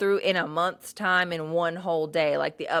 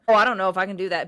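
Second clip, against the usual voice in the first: mocking whine; 2 semitones higher, 6 dB louder, much faster than usual. Mocking whiny excuse.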